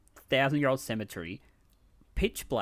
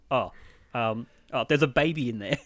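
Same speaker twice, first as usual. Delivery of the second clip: bad lie; 4 dB louder than usual. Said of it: "she'd be like".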